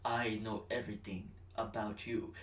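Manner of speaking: mock threat, quiet and dark; menacing rival. Rival fighter threatening Grady, mock menace. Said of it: "he's like".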